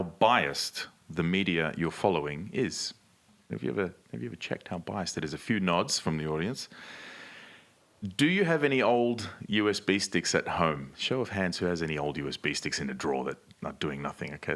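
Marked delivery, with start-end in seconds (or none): none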